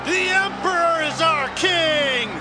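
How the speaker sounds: high, slow group shout; high-pitched defiant proclamation; priests' defiant shout. Acted. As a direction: declare loyalty in a drawn-out cry. Priests shout back at Pilate.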